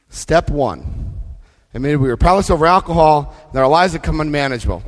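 fast, rattled-off recital; rushed. Shown as a demonstration. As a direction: run through it quickly. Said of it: "reads step one twice".

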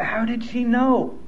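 murmured private amazement; inner thought, hushed. Retold or imitated. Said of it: "And I thought".

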